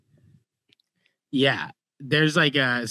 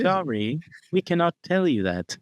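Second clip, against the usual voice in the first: higher-pitched retro robot; 6 semitones higher than usual. Acted. Host redoes his robot refusing a secret, robot voice. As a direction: deliver it as an old-fashioned talking machine. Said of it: "that's what it would sound like".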